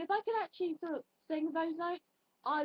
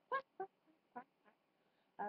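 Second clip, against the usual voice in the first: lightly imitating a duck's quack; playful little quacks like a duck; mock duck quack; 3 semitones higher, 7 dB quieter, faster than usual. Describing ducks, lightly imitating a duck's quack. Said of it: "like a duck does".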